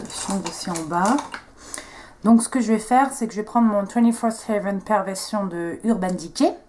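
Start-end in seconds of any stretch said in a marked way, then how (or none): 3.9-6.6 product name in a lightly put-on English accent; show-off English accent. Real, not acted. Beauty vlogger proudly naming her eye pencil, show-off English accent. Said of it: "cet accent anglais de ouf".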